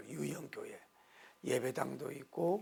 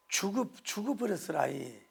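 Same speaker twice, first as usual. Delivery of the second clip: lightly voiced Jeolla dialect, a touch higher; Jeolla accent; 5 semitones higher than usual. Pastor mimicking Jeolla folk for the congregation, light Jeolla accent. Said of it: "전라도는".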